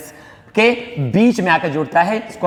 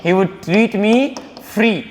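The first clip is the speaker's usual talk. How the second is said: slow, deliberate model sentence; teacher dictating each word; slow dictation; much slower than usual. Shown as a demonstration. Teacher modelling a sentence, slow and deliberate. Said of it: "आप would का इस्तेमाल कर सकते हैं".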